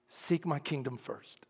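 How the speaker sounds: slow, low, soft command; quiet, measured inner voice; hushed divine voice. Retold or imitated. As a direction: say it slowly and softly, with authority. Holy Spirit's quiet voice retold.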